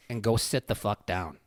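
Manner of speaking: even, unhurried order; dead calm. Retold or imitated. Dad to a raging policeman, dead calm. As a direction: give the order without any heat. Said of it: "just dead calm".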